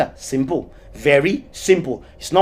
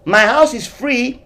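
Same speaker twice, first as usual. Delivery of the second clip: shouting out to the devil, louder and higher; a half-serious shouted invitation; mock shout; 3 semitones higher, 4 dB louder than usual. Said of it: "I am shouting".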